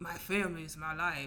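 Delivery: mean, ugly, nasty put-on tone. Speaker mimicking people from another culture, in a put-on nasty voice. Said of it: "Why did you put on the nasty voice?".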